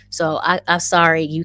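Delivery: loud, defiant "sorry" to the haters. Real, not acted. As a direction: belt out a sorry you don't mean. Defiant non-apology to haters.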